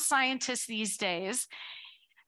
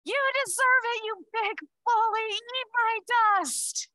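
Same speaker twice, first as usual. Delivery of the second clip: much higher, fast mock-gloating jeer; hammed-up victory taunt, louder and high; 10 semitones higher, 3 dB louder than usual. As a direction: crow over the pulled-over truck. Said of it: "I'm like".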